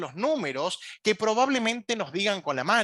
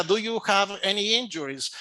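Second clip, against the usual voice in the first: phonetic English question; 2 semitones higher than usual. Shown as a demonstration. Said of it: "la opción de respuesta para la fonética".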